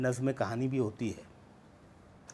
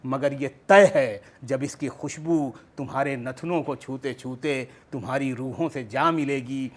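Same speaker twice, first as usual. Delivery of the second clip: poetry recitation. Acted. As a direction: recite verse line upon line, descending to the close. Recites second poem in full.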